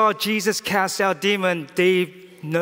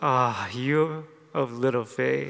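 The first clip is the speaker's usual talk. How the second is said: put-on gentle voice with a little laughter; 5 semitones lower, 5 dB quieter than usual. Speaker with an interpreter voices Jesus, imitating his gentle voice. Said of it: "speaking with a gentle voice".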